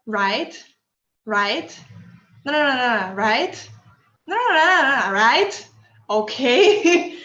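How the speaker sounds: a mock of an unsure speaker looking for approval; imitating nervous agreeing. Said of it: "is all the time saying".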